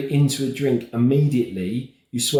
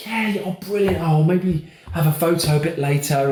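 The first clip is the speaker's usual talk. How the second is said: polite; 5 semitones higher than usual. Retold or imitated. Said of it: "I'm trying to be as polite as possible".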